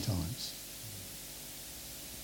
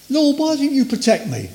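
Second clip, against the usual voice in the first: whiny complaint; 10 semitones higher than usual. Retold or imitated. Self-righteous complaint to God.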